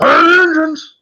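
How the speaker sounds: very high, loud, shrieking scream. Retelling a movie scene where Rocket gets whipped around: imitating Rocket screaming. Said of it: "Rocket's just screaming like a bitch".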